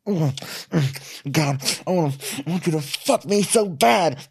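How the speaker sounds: campy high voice begging for sex; hammed-up Kristen. Hamming Kristen's added lines.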